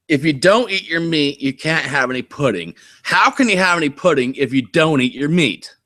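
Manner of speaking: high, heavy British scolding; heavy British accent. Shown as a demonstration. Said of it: "You did do your heavy British accent".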